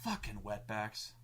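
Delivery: slow, low mutter under the breath; a quiet, slowed mock mutter. Retelling how the player cursed as he left, muttered. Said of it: "she mutters".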